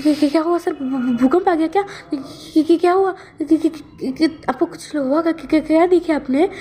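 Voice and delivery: startled assistant stammering questions at his boss; flustered panic. Retold or imitated. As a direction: stutter in startled confusion. Startled by the shout.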